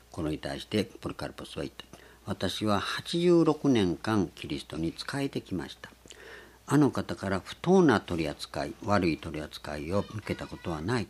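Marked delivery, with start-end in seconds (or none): 2.3-11.1 solemn testimony. Retold or imitated. Polycarp answers the governor.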